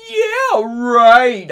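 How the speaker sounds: very high, loud sarcastic yeah right; sarcastic exclaim. A narrator's reading. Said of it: "I exclaimed".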